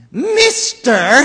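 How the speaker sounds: high, loud, sharpish call of the Lorax; sharp bossy Lorax. Acted. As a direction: bark it out like a bossy little creature. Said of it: "he said with a sawdusty sneeze".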